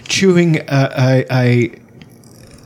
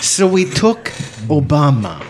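put-on a clumsy Russian mafia boss accent; a weak stab at a Russian gangster; bad Russian accent; slower than usual. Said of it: "It, it doesn't sound Russian at all".

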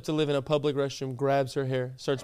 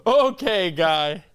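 loud mock okay; 2 semitones higher, 4 dB louder, much slower than usual. Mocking the fan's pushiness.

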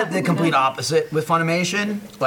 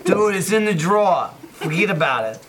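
put-on New Jersey accent; 4 semitones higher than usual. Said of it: "New Jersey accent again".

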